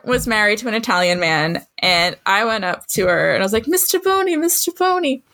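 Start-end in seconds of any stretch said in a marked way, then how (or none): 3.7-5.2 put-on high, excited child calling out; eager kindergartner. Kindergartner boasting to the teacher about Italian, high and eager. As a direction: pipe up like a proud little kid.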